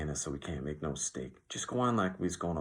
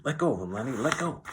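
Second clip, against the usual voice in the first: high, loud command climbing higher; urgent shout; 8 semitones higher, 5 dB louder than usual. A narrator's reading. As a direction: shout to make him let go. George urgently orders Lenny to stop.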